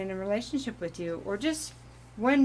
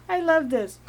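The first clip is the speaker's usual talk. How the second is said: real giggle, higher and louder; giggling; 8 semitones higher, 6 dB louder than usual. Real, not acted. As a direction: giggle your way into the words.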